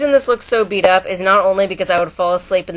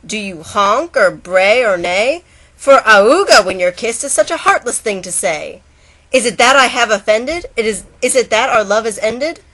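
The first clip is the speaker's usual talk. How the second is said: hurt turtle; 3 semitones higher, 5 dB louder than usual. Acted. Turtle hurt by the bagpipe's reply, wounded complaint. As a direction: sound offended and hurt. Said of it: "Said the turtle to the bagpipe".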